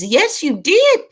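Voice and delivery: normal talking voice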